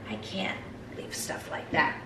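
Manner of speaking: hushed, breathless admission; confiding whisper. Real, not acted. Vlogger confessing her thrift habit to viewers, whispered. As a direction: whisper it like a guilty secret.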